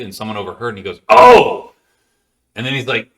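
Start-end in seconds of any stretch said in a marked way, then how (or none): 1.1-1.7 surprised cry. Retold or imitated. Overhearing operator reacts to the call.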